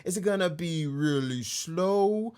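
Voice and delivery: slowing down like a tape stop; tape stopping. Shown as a demonstration. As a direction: drag the words down like a dying tape. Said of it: "Try to emulate it with my voice".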